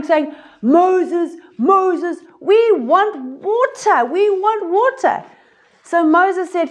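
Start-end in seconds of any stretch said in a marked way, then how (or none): 0.6-5.2 whining crowd. Acted. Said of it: "Israelites were crying".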